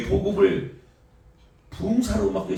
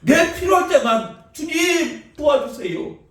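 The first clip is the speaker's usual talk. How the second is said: mock needy prayer; 10 semitones higher, 7 dB louder, slower than usual. Preacher mocks selfish prayer.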